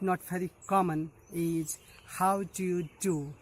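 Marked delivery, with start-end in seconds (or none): 2.0-3.3 each word spaced out, slow; slow careful demo. Shown as a demonstration. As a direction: say it slowly for learners to follow. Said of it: "if you just speak it faster".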